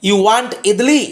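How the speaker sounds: "You want idli" with a rising question tune; rising intonation. Shown as a demonstration. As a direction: let the pitch climb on "You want idli" as a rhetorical question. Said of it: "এখানে এটি হলো intonation, rising speech". ("You want idli" ঊর্ধ্বমুখী প্রশ্নের সুরে)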